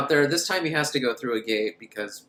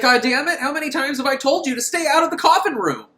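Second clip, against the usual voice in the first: higher, louder scolding yell; mock angry yell; 11 semitones higher, 5 dB louder than usual. Tall man scolding the boy for entering the coffin room, angry yell. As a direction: bellow at the kid like a fed-up boss. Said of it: "He's like".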